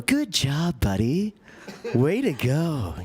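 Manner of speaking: put-on bright, slow praise for a small child; hammed-up dad praising his kid; phony encouragement voice. Shown as a demonstration. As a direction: cheer a toddler on, overdoing it. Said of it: "phony encouragement voice".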